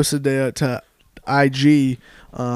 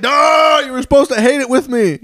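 high, shouted complaint; mock betrayed dad; 9 semitones higher than usual. Dad scolds brother for approving, mock betrayed shout. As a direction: wail in protest as an imitated father.

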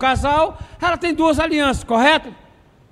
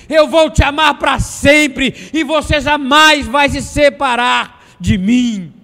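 preaching at full force; 3 dB louder than usual. Acted. Sermon rising to shouted climax.

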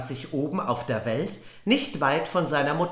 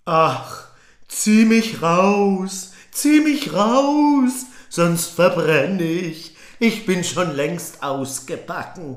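bread crying out; 3 semitones higher, 6 dB louder, slower than usual. Acted. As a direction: beg loudly to be pulled out. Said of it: "schrie das Brot wieder".

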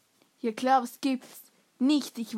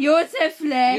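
mock scolding call; 8 dB louder than usual. Kids act out scolding Josef Le.

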